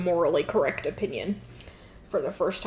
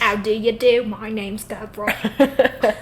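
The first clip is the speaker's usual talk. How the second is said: louder, slowed mock Cockney urchin; Cockney accent; 3 semitones higher, 4 dB louder, slower than usual. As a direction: ham up a Cockney street kid introducing himself. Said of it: "the most insane Cockney accent".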